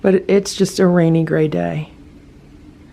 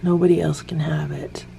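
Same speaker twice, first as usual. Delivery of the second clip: cat's whispered voice; 3 dB quieter than usual. Acted. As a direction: voice the cat in a sly whisper. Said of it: "Simba is saying".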